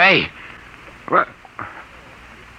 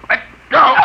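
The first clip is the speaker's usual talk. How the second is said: straining shout; 4 dB louder than usual. Acted. Drugged man struggles to get free.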